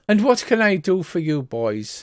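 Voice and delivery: a hint of theatrical fortune-teller; Madame Vastra. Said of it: "her accent keeps j-, chopping and changing".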